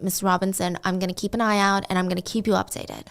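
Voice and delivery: low, softened reassuring quote; calming reassurance. Retold or imitated. Friend on the phone promising updates to her mother, imitated calm reassurance. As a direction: imitate someone steadily soothing a worried parent. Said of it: "He calmed Salamandra down".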